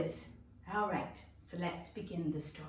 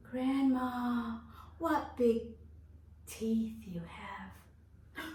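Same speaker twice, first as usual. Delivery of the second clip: fading into a slow frightened whisper; growing fear, whisper the teeth; scared little girl; 4 semitones higher, much slower than usual. Acted. Girl, fearful, last question.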